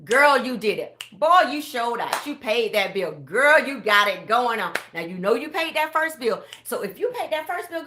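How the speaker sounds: loud, hyped-up cheering; hype cheer. Pretend. Cheering on a listener who paid a bill, loud and hyped. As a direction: pump them up like a cheerleader.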